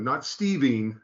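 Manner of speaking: STEVEEN ending in a long EEN; distorted name. Shown as a demonstration. Teacher rejecting a mangled name, mispronounced STEVEEN with long EEN. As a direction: say STEVEEN to rhyme with seen. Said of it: "pronouncing some distortion of your name".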